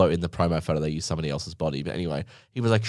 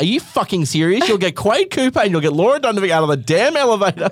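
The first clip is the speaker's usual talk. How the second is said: much higher and louder, half-laughing fury; mock angry rant; 11 semitones higher, 5 dB louder than usual. Calling the lift staff after waiting too long, a hammed-up furious shout. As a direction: yell down the phone, hamming up the outrage. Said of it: "then I would call and be like".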